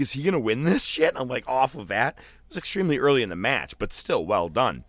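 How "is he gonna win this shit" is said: excited disbelief. Retold or imitated.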